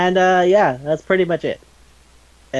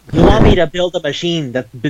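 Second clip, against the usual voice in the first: incredulous outburst; 4 semitones higher, 5 dB louder than usual. Retold or imitated. Retold outrage at robot request.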